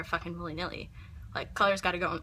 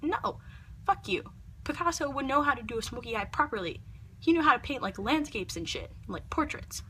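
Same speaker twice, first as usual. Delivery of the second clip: indignant retort; 6 semitones higher than usual. Retold or imitated. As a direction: snap back at the critics. Imagined retort to critics.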